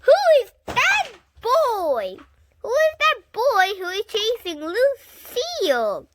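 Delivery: high, loud alarmed question; alarmed shout. A narrator's reading. Grace shouting who is chasing Lucille, high and loud. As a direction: call it out in a panic. Children shouting across playground.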